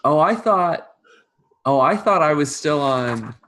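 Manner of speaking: high, loud halting surprise; flustered servant. Acted. Servant caught on farmer's land, flustered innocence. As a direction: act innocent, pitched well up.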